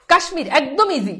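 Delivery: কাশ্মীর drawn out slowly as kash-mir; slow teacher demo of কাশ্মীর; slow model word. Shown as a demonstration. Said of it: "কাশ্মীর শব্দের উচ্চারণ".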